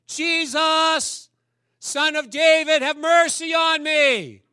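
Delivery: high, loud, slow desperate shout. Acted. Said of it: "He yells louder".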